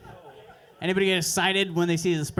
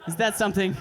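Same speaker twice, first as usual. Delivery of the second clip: mock scheming inner voice, higher; 5 semitones higher than usual. Broke guy scheming about bees, higher and excited. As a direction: hatch a wild plan in your head, pitched up. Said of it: "trying to flip bees in your head".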